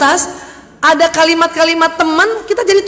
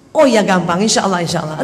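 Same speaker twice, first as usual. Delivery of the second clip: lower, easy reassurance; reassuring; 6 semitones lower than usual. Acted. Friend answering a widow asking for work, reassuring. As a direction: tell a worried friend it is easily sorted.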